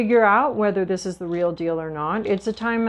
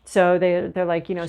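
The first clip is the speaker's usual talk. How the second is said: usual speaking voice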